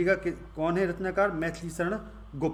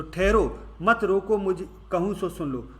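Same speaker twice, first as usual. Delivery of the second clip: raised, commanding call to halt; Kaikeyi's command; 3 semitones higher, 4 dB louder than usual. Acted. Kaikeyi ordering the royal assembly to stop, loud. Kaikeyi's defiant words in the verse.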